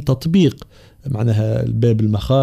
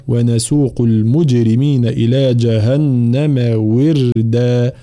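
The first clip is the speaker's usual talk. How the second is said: slow tajweed teaching recitation; measured, drawn-out verse reading; Quran recitation; slower than usual. Shown as a demonstration. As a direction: recite slowly, lengthening the vowels. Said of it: "في قوله تعالى".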